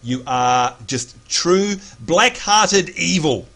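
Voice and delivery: slow, drawn-out playful condemnation; mock accusation. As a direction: draw out each word in mock blame. Playfully accuses co-host of being evil.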